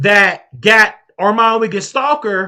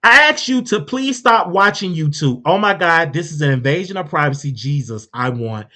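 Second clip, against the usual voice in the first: exasperated daughter; 3 semitones lower than usual. Retold or imitated. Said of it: "Lady T said".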